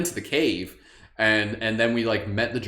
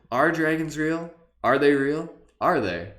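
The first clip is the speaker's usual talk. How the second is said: much higher, drawn-out wonder; high and loud; 7 semitones higher, 5 dB louder than usual. Shown as a demonstration. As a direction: stretch it up in awe. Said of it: "repeats question in voices".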